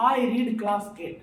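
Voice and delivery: I read class eight said very slowly, without in; slow wrong version. Shown as a demonstration. Teacher showing students the sentence without in, slowly. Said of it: "अगर in नहीं रहता".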